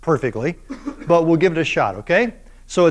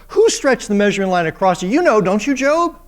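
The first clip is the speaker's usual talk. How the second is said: mocking question rising high on Job; God teasing Job with sarcasm; sarcastic; 4 semitones higher than usual. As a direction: needle him with fake innocence. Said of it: "dripping with sarcasm".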